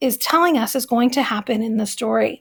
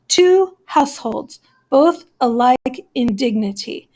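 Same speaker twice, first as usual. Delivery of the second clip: counting syllables. Shown as a demonstration. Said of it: "I'm gonna count them".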